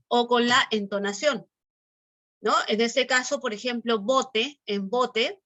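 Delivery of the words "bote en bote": "bote" with the voice lifted on BO; stress on BO of bote. Shown as a demonstration. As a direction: lean on the first syllable of "bote". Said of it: "la voz se eleva en la sílaba bo". (acento en la sílaba BO de «bote»)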